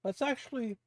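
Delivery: speaking with a mouthful of ice; chewing ice while talking. Real, not acted. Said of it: "Mouthful of ice, like I said".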